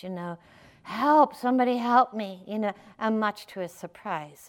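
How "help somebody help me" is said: higher-pitched call for help; half-hearted cry to the heavens; mild mock shout. Man clinging to a cliff branch, mildly acted cry for help. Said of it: "he shouts out to the heavens".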